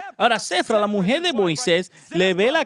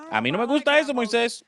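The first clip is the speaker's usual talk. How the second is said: higher, pouting protest; displeased wife; 5 semitones higher than usual. Acted. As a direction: complain to Moses as his wife. Wife objects. (la esposa protesta ante Moisés, voz aguda)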